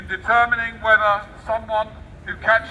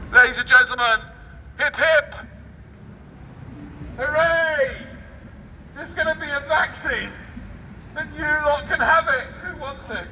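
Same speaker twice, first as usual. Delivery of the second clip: higher-pitched fairground barker, hamming it up; mock announcer; 6 semitones higher than usual. Barker to the crowd, hamming up the vaccine offer. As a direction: hawk the vaccine like a showman.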